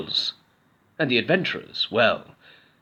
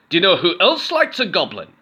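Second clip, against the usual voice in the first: high, louder teasing goblin; goblin from the dark; 8 semitones higher, 6 dB louder than usual. A narrator's reading. Cave goblin teasing Goblin, high loud. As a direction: tease them from the shadows. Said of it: "said the voice".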